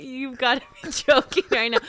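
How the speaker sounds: high, loud, incredulous through laughter; retold disbelief, still cracking up; laughing disbelief. Customer retells her reply to the saleswoman, laughing disbelief.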